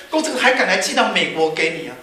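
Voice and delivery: acted indignant ridicule; mock outrage. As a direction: play an appalled friend deriding shoddy work. Friend derides the scarf as shoddy.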